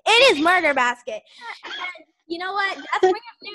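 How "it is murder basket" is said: shouting. Real, not acted. Shouted declaration.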